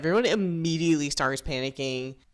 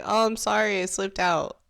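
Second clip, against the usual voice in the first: high, fake-innocent sorry; mock apology; 5 semitones higher than usual. Mocking Matt's fake apology to the group, higher. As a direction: play it falsely innocent.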